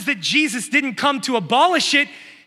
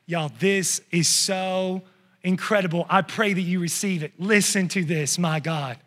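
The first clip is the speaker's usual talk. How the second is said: awed hush; 7 semitones lower, 6 dB quieter than usual. Real, not acted. Awed hush after scripture.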